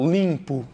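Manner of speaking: LIMPO with the I through the nose; nasal I. Shown as a demonstration. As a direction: nasalise the first vowel of LIMPO. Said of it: "Uma coisa seria som nasal". ("limpo" com som nasal no I)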